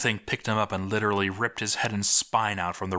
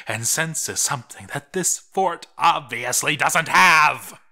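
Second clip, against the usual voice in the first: louder, higher, mocking; bitter sarcasm; 4 semitones higher, 4 dB louder than usual. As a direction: spit the sarcasm out. Bitter sarcastic journal rant.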